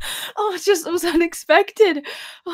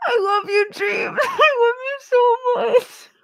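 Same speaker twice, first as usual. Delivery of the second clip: emotional, near tears; 8 semitones higher, slower than usual. Real, not acted. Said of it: "I'm literally gonna cry".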